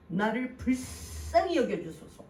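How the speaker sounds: slow, drawn-out cry for mercy; earnest plea. Retold or imitated. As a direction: imitate a pleading woman, drawing the words out. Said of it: "간구하는 마음으로 소리를 질렀다는 거예요". (간절히 호소하는 말투)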